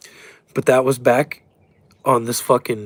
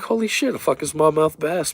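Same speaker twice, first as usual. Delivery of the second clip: surprised; 3 semitones higher than usual. Retold or imitated. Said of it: "I was like".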